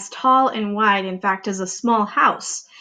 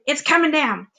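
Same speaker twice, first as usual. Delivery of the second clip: alarmed aunt; 6 semitones higher than usual. Acted.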